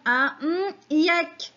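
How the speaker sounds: UN N, YEK with a hummed "mm" for the gap; missing syllable masked. Shown as a demonstration. Teacher quizzing children on a missing syllable, N hummed as placeholder. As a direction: hum N in place of the hidden syllable, then say YEK. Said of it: "Quelle est la syllabe manquante".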